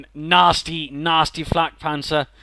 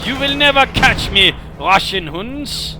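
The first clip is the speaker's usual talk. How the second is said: villain voice; 3 semitones higher, slower than usual. Acted. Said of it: "coming up with a sinister laugh".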